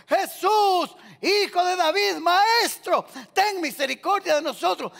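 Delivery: lepers' loud, high cry for mercy. Acted. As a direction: call out to Jesus from afar, pitched high. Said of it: "alzaron la voz y comenzaron a gritar".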